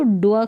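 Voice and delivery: "ड्व" as one blended dwuh sound. Shown as a demonstration. Teacher showing beginners a joined sound, "ड्व" as blended dwuh. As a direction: say "ड्व" with d and w run together. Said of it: "करके इसको पढ़ना है".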